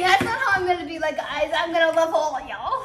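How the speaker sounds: loud star voice. Pretend. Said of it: "I'm kidding".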